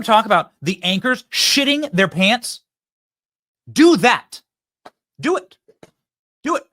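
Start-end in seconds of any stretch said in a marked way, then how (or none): 3.7-6.6 urgent egging on. Real, not acted. Urging on, louder, higher.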